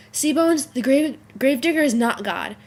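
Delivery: a light imitation of Booth lecturing Bones; quoting Booth. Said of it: "Next one is Booth".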